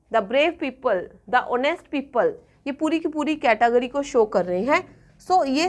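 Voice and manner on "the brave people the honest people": very slow, each word spaced out; slow teacher dictation. Shown as a demonstration. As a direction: spell it out slowly for the class. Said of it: "slow teaching dictation".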